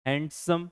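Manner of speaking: हैंडसम split into two beats, हैंड then सम; break inside the word. Shown as a demonstration. Teacher showing students how they break up हैंडसम, split in two. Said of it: "break ले लेके पढ़ रहे हो".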